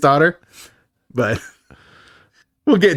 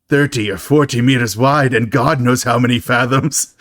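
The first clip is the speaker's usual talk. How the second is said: light hint of Irish brogue; lightly done Irish-tinged film-star voice; Liam Neeson. Co-host quoting the Family Guy parody, slight Irish brogue. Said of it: "with, like, a hint of brogue".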